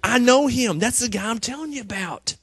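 high, loud eager cry; excited recognition. Retold or imitated. John spotting Jesus and telling everyone, high and loud. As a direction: point and shout, that's the one. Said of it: "Jesus shows up and he goes".

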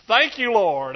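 loud thanks to the Lord; hammed-up loud thanks; loud mock praise. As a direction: call out thanks through the pain. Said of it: "Now I hit my head".

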